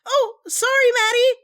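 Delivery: high-pitched, apologetic cooing; sympathetic apology. Acted. Friend apologizing to an overworked artist, sympathetic. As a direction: soften into a high, sorry voice.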